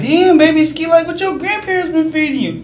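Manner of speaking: exasperated. Retold or imitated. Uncle struggling to change a diaper, loud exasperated outburst. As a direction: groan it out in mock disbelief.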